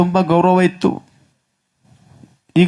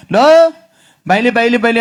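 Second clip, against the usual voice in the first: mother scolding; 6 semitones higher, 4 dB louder than usual. Retold or imitated. Mother scolding and hitting son.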